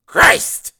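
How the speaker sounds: loud, high barking chief; gruff police chief. Acted. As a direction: bark like a surly boss. Chief swears.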